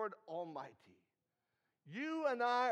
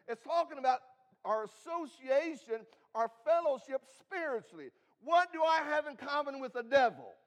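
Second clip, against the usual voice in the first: raised, louder preaching voice; emphatic preaching; 3 semitones higher, 6 dB louder than usual. Real, not acted. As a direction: build the point with force from the pulpit. Preacher rising to emphatic point.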